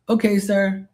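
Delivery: put-on high, polite Filipino-accented "sir" voice; imitating Filipino pool guy. Pool cleaner greeting Mark politely, in a high Filipino-accented voice. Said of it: "I said".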